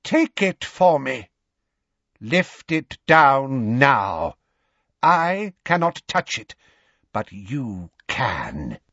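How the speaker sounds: cold, inhuman master giving a slow order; high cold voice. A narrator's reading. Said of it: "a high, cold voice".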